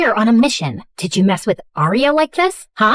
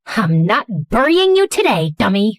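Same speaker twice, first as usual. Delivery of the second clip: snapping. Acted.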